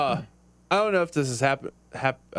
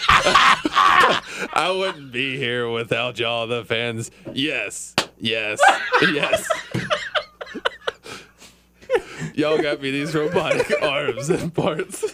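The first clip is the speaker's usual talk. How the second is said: robot voice; 3 semitones higher, 4 dB louder, slower than usual. Pretend. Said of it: "talk in a robot voice".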